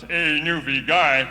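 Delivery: slow, drawn-out taunt; a Toronto fella lightly mocking the newcomer; mocking tease. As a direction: poke fun at the Newfoundlander, lightly. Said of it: "He used to poke fun at us".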